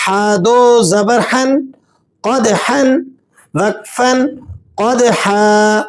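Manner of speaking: حن pushed from the mid-throat; throaty ح. Shown as a demonstration. Teacher showing the throat sound ح in حن. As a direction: breathe the ح hard from the throat. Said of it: "وہاں سے ذرا زور کے ساتھ پڑھنا".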